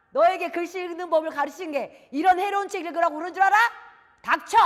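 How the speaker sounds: loud, high-pitched angry father; furious outburst. Acted. Father silencing his son over school and reading, furious. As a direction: shout the child down. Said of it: "화를 버럭 내시면서".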